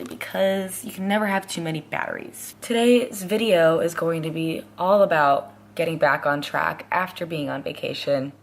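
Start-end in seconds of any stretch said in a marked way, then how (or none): 2.6-8.3 morning voice. Real, not acted. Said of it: "get my morning voice to go away".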